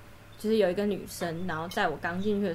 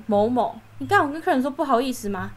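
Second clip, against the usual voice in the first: fast, higher and louder mock reprimand; fierce scolding; 4 semitones higher, 5 dB louder than usual. Senior tapping newbie's shoulder, imitating harsh scolding. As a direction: snap it out like a bossy senior. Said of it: "他又很凶".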